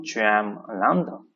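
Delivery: slow question, pitch jumping up on L'INDE. Shown as a demonstration. French teacher showing how a question ends, questioning tone. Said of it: "with a questioning tone".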